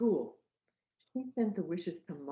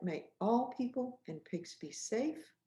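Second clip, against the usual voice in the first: slow gentle recital; 6 semitones higher than usual. Shown as a demonstration. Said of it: "Can you say that".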